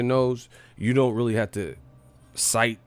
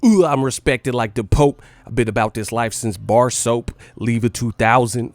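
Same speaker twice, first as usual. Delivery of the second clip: mock E-40 flow; 6 dB louder than usual. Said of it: "He's like".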